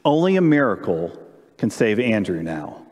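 a touch of a despairing father, trailing down and slowing; lightly voiced desperation; desperate. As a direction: let it sink into low hopelessness at the end. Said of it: "in this desperation voice".

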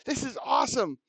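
put-on an overjoyed little boy bubbling over; a child thanking the shop owner, high and thrilled; excited boy. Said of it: "And the boy was so excited".

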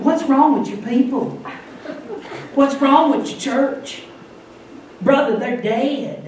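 disappointed evangelist. Retold or imitated. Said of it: "they get disappointed".

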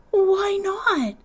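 put-on high little-boy question; indignant child. Little man pushing Stacy for why, childish and high. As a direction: press for an answer like a small boy.

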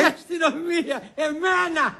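high, laughing disbelief. Acted. Hearing the police are after him, laughing. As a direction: laugh it out incredulously. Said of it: "Γελάς, ε".

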